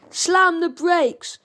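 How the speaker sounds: slow, loud, high dim henchman yell; shouted order. A narrator's reading. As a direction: drag out the order at full volume. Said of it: "shouted Thumbs".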